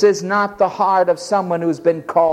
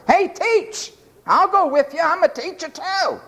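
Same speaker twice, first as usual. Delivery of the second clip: higher, breezy mock of a man slapping Christ's back; cocky buddy; 11 semitones higher than usual. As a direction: play the overfamiliar pal.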